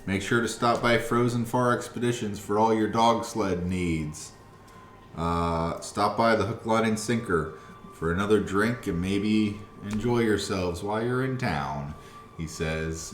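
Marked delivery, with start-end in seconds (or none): 0.1-11.9 high, loud, cheery dragonborn greeting; jovial dragonborn. Acted. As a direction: boom out a jolly welcome. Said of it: "kinda jovial in his speak".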